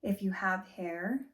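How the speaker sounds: calm, unhurried meditation-guide voice; guided body scan. Shown as a demonstration. Teacher easing class through a body scan, calm guided meditation. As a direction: guide them gently, leaving long pauses between phrases.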